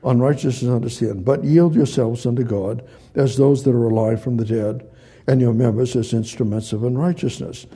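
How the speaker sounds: read slowly. Shown as a demonstration. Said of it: "I'll read that slowly".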